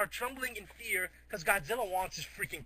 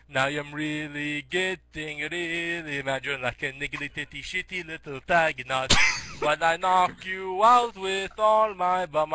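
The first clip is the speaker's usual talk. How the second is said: slow, louder hammed-up anger; mock mad rant; 2 semitones lower, 8 dB louder than usual. The Great Mighty Pooh gets mad, louder and slower. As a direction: growl it out in fake fury. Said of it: "He's like".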